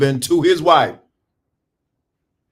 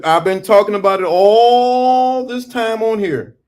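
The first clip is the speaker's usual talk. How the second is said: higher, slow, exasperated drawn-out line; 6 semitones higher, 3 dB louder than usual. Real, not acted. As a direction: stretch it out in exasperation. Exasperated preaching.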